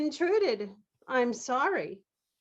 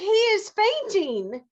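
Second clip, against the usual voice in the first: alarmed; 8 semitones higher, 5 dB louder than usual. Acted. Alarmed mother explains.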